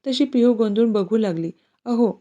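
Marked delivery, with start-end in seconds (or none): 1.8-2.1 higher, startled mild complaint; startled annoyance. Acted. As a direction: scold him for the fright. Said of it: "ती चिडूनच आट्या पाडत बोलली". (दचकून चिडणे)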